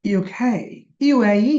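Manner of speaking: ইউকে, ইউএই with the final letter held; stress on last letter. Shown as a demonstration. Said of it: "last অক্ষরটা জোর দিতে হয়".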